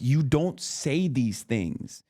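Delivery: building from a slow scold to a high incredulous cry; mock outrage that rises and rises; retold disbelief. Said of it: "I'm like".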